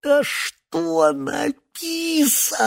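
очень высоко и медленно, задыхаясь; зайдись в крике; зашёлся криком. A narrator's reading. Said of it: "зашёлся Синайский". (истерично высоко)

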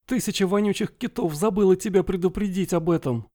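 high, lively pirate wife curse; pirate woman voice. Acted. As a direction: toss the oath off like an old sea dog.

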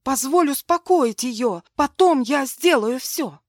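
выше и громче, сквозь слёзы; умолять плача; плачущая мольба. A narrator's reading. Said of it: "Я заплакала". (мольба сквозь слёзы)

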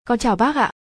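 put-on light, polite young girl greeting an elder; lightly voiced shy girl greeting her friend's mother; girl's polite voice.

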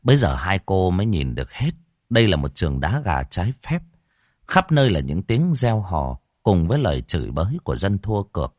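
usual speaking voice

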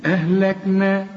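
أهلكنا with all sounds light and the end drawn out; long final vowel. Shown as a demonstration. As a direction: hold the last a of أهلكنا. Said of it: "وهنمد أربع حركات".

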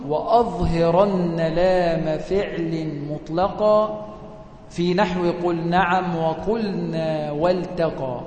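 slow, measured chant of the verse; poem recitation. Shown as a demonstration. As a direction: recite the line slowly, like a teaching poem. (إنشاد بيت الشعر ببطء وتأنٍّ)

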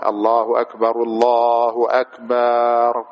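الله أكبر with the ba of أكبر stretched long, slow and sung; drawn-out adhan. Shown as a demonstration. Teacher demonstrates the wrong drawn-out takbir to students. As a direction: stretch أكبر into أكبار like a careless caller. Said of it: "مثلًا".

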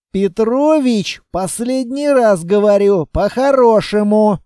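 last warning, patience running out; stern final warning. Acted. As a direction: warn him one last time, firmly. Final warning to a reluctant man.

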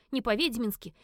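plain reading voice

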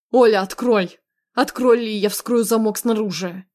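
loud, insistent warning; urgent calling. Acted. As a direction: demand entry with a punched first word. Husband calls through locked door.

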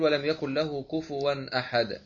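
slow, drawn-out recitation of the verse end; Quran recitation. Shown as a demonstration. Teacher demonstrates recitation to students. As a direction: recite it slowly with tajweed. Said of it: "كأن تقول".

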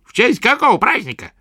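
high, cackling crone's question; a scornful old hag asks; old witch voice. A narrator's reading.

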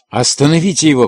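громкий, выше обычного окрик; крикнуть вслед убегающему; крикнул. A narrator's reading. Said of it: "крикнул я". (громко крикнул)

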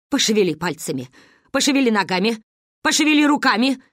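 measured commands, rising step by step; dictating. A narrator's reading. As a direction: issue instructions one by one. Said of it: "диктовала Ба". (диктуя, командным тоном)

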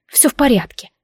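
clipped offended "Всё в порядке"; sulky "fine". Acted. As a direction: say "Всё в порядке" meaning the opposite. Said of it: "ответила я таким тоном".

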